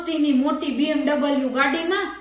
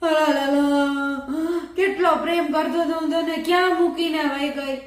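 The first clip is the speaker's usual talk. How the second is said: mock wailing; 2 semitones higher than usual. Widower wailing on the road for his dead wife, mock wailing. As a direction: ham up a widower's lament. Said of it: "બોકા નાખી નાખીને રોવા માંડ્યો".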